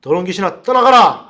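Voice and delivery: exorcism command building to a loud cry; demonstrated shout. Shown as a demonstration. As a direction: start measured, burst out on the final order. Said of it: "고함 질러야 된다고 제가 가르쳐 줬습니다".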